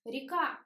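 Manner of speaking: "Река" as ri-KA; short i in the first syllable of "Река"; unstressed Е as И. Shown as a demonstration. Teacher giving the next example, "Река" with i for е. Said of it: "but we pronounce И".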